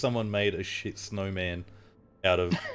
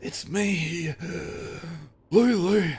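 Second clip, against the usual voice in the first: high loud eager voice; Lulu's voice; 10 semitones higher, 6 dB louder, slower than usual. Acted. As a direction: announce yourself brightly, high.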